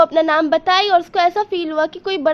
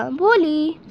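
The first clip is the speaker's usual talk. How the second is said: soft and loving; slower than usual. Acted. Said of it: "बहुत नरम और प्यार भरी आवाज़ से कहा".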